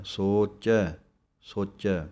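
ਸੋਚੈ ending on an open ਚੈ; ਸੋਚੈ with dulainkar ਚੈ, not ਸੋਚੇ. Shown as a demonstration. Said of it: "ਪਾਠ ਬਣਨਾ ਹੈ ਚੈ". (ਸੋਚੈ ਦਾ ਚੈ ਸਾਫ਼)

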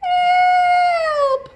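high loud gurgling cry; burbled. Acted. Boy sinking in pool, burbled high cry. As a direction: burble it as if underwater. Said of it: "I burbled".

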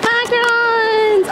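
drawn-out delighted "Macarons!"; excited. Real, not acted. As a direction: stretch it out with glee. Excited over new macarons.

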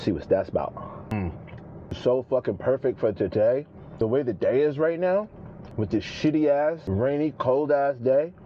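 chewing while talking; eating a dipped sandwich; mouth full. Real, not acted. Seen 2: Bites dipped sandwich at -1.0, lips pursed chewing, then talks.

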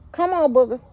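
loud, high call to a pet. Real, not acted. To her pet outside, loud high call. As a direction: call the dog in across the yard.

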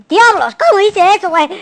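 loud, high exclamation; high, loud burst of disbelief; amazed outburst. Real, not acted. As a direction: blurt it in astonishment at yourself. Amazed at own feat.

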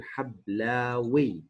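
حبلاوي slowly, in separated syllables; slow teaching model of حبلاوي; syllable-by-syllable demonstration. Shown as a demonstration. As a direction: draw out the endings in حبلاوي. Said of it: "كلمة حبلى بصير".

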